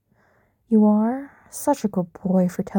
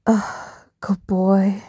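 whisper; much slower than usual. Acted. Praising partner.

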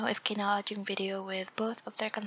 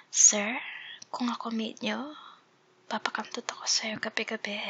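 maid voice. Acted. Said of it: "me playing as a maid".

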